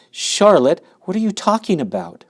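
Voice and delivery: high, loud alarmed pleading; alarmed and confused. A narrator's reading. Wilbur panics at the news.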